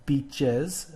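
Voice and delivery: "beaches" drawn out slowly, ending in a voiced EZ; plural EZ ending. Shown as a demonstration. Teacher demonstrating the plural, "beaches" with a clear EZ. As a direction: sound out both syllables of "beaches". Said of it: "so we're gonna say beaches".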